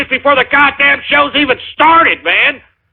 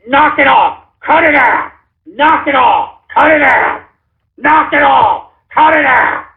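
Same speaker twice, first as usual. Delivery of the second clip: stern; 3 semitones higher than usual. Real, not acted. Host scolding trolls.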